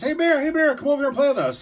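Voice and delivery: high, loud, eager rabbit voices; rabbits calling out. Acted. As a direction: call Bear over to play, high and loud. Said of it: "there'd be rabbits".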